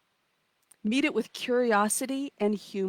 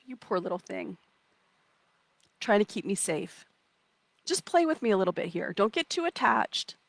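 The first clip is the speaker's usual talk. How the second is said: softly pitying, as to a small pest; tender mock sympathy for a little gremlin; loving pity; 3 dB quieter than usual. Shown as a demonstration. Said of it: "lovingly pathetic towards".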